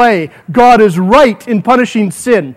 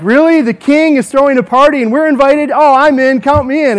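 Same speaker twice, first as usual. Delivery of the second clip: mock eager, higher and louder; hammed-up thrilled invitees; excited guests; 4 semitones higher, 3 dB louder than usual. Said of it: "people are like".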